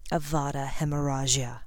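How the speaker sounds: softened, icy incantation; understated near-whisper of menace; cold hushed curse. A narrator's reading. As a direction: intone the curse quietly and coldly. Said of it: "while he coldly whispered".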